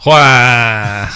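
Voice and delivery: long whiny creature wail; comic drawn-out beast groan; Chewbacca Berg. Acted. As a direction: stretch out a feeble Wookiee moan. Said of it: "that's Chewbacca Berg".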